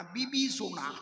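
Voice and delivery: বিবিসোনা said as bibisona, the vowel turned to i and ch softened to s; mispronounced word. Retold or imitated. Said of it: "উচ্চারণটা ওদের হয় না".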